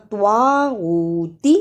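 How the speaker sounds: طاغوتی with a heavy, thick ط; proper ṭa sound. Shown as a demonstration. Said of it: "طوا کی صحیح آواز نکالنا". (طاغوتی میں طوا موٹا)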